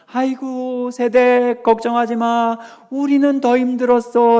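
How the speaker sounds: lightly voiced older deaconess, dismissive; elder deaconess. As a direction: brush off the young wife's worry. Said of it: "권사님들이 ... 뭐라고 말씀하시냐면".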